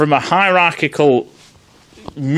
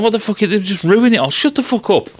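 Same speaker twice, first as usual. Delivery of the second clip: higher, annoyed snap at the end; fed-up outburst; 5 semitones higher than usual. Retold or imitated. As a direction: blurt it out higher, sick of the nonsense.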